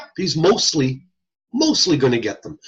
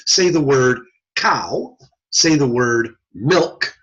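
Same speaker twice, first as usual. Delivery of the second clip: tester reading test words; slower than usual. Shown as a demonstration. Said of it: "If I use single syllable words".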